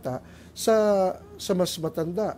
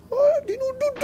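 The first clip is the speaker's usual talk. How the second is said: mock dude; 3 dB louder than usual. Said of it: "babanatan mo".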